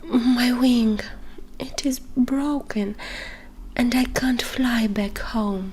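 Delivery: weak whispered bird voice; hurt little dove, muffled. Acted. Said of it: "with a muffled voice".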